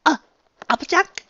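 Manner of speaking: hesitant, stammering and high. A narrator's reading. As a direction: stumble over the name in shock. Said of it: "she stammered".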